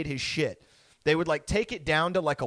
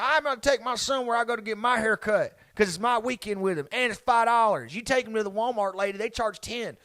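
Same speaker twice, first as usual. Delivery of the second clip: higher-pitched mock rant of a dad; lightly voiced dad laying down the law; indignant dad; 7 semitones higher than usual. Acting out dad's indignant rant.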